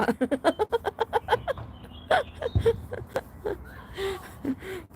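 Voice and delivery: high laughing fit, trailing into breathlessness; helpless laughter. Real, not acted. Streamer reads out viewer's answer, cracking up. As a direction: laugh till out of air. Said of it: "พี่ขำที่น้องตอบมา".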